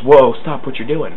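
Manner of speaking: hammed-up foot yelling stop; talking foot. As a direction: make the foot shout a warning. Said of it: "my foot, once again, goes".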